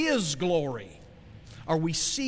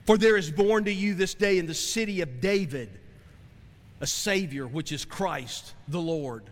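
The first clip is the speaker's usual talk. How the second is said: scripture reading. Acted. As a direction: read it out like the pulpit Bible. Rereads scripture.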